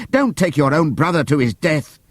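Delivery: high, urgent appeal; pleading shout. Acted. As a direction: beg them to stop. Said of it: "they shouted".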